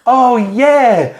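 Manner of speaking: high, gushing hostess voice; Diana the host. Acted. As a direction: play her keen, high-voiced. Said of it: "and then she goes".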